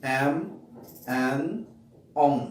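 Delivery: এম, এন, অং hummed through the nose; nasal sounds demo. Shown as a demonstration. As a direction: ring each one in the nose. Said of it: "তাহলে কি হলো". (নাক দিয়ে উচ্চারণ)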